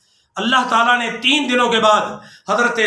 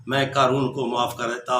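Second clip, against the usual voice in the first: much softer, almost breathed repeat; fading to a hush; 10 semitones lower, 6 dB quieter than usual. Acted. God's repeated words to Moses, dying away to a hush. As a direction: let the repeat sink to a near-hush.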